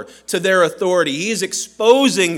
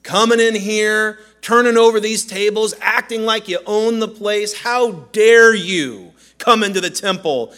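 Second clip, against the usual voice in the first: attitude; 2 semitones higher than usual. Shown as a demonstration. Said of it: "we have to hear a little bit of attitude in their voice".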